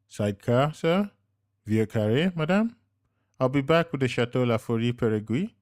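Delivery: waitress handing the couple their drinks. A narrator's reading. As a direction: serve each drink politely.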